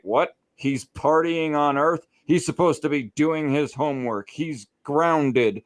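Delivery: imitated scolding mom. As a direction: scold like a mother hearing bad news. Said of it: "She visits his mom, and she's like".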